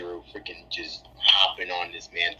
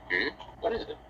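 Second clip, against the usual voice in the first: a soft, high-pitched Shadow; 4 semitones higher, 4 dB quieter, faster than usual. Pretend. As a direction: answer lightly, pitched up and hushed. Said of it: "can you do Shadow's voice".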